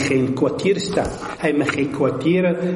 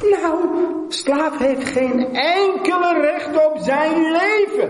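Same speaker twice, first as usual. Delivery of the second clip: the Lord speaking. Acted. The Lord telling his servant he owns nothing, high proclaiming voice. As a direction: proclaim it with divine authority. Voicing the Lord's firm reply.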